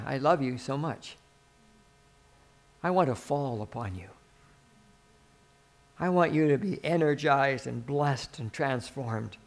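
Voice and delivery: soft, low, loving reassurance; tender. Acted. Holy Spirit speaking love to the believer, tender and low. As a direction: say it gently, like a quiet endearment. Voices God's tender words to people.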